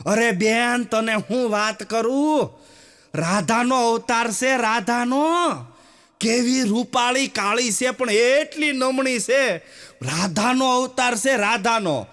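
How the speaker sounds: mild mock gossip, slow and sing-song; gushing mother-in-law. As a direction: gush about the bride like a proud mother-in-law. Mother-in-law praising bride to neighbours.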